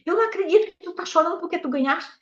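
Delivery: high-pitched mock incredulity of a laughing sister; imitated amused disbelief. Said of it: "ela rindo". (incredulidade divertida, imitada em voz aguda)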